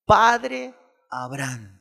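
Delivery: slow, drawn-out mock cry; mild crying out. Preacher acting the rich man crying to Abraham, slowly. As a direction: stretch the plea slowly like a cry. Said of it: "dando voces, dijo".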